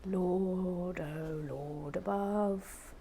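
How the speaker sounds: very slow, whispered despair; slow exasperated whisper; weary exasperation. Real, not acted. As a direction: drag it out wearily.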